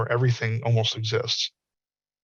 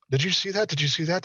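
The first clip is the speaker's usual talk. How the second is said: excited disbelief; 6 semitones higher than usual. Retold or imitated. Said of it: "You go".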